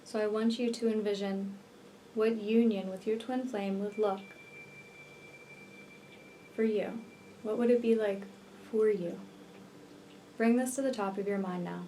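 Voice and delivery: unhurried meditation voice with long pauses; guided meditation. Real, not acted. Healer leading listeners to visualize twin flame union, guided meditation. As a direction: guide the listener gently into relaxation, leaving space between phrases.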